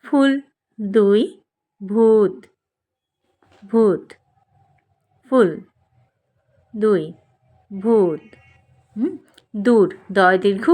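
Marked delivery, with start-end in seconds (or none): 1.8-4.0 ভূত with the ঊ held long; long vowel demo. Shown as a demonstration. Teacher contrasting ভূত with ফুল and দুই, vowel drawn out. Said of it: "একটু বেশি সময় উচ্চারণ হচ্ছে". 7.7-8.2 ভূত with the ঊ held long; long vowel demo. Shown as a demonstration. Teacher contrasting ভূত with ফুল and দুই, vowel drawn out. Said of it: "একটু বেশি সময় উচ্চারণ হচ্ছে".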